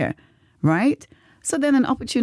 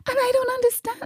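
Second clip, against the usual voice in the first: plaintive protest; faster than usual. Retold or imitated. Client complains to her therapist, plaintive retold protest. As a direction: whine it lightly, pitched far up.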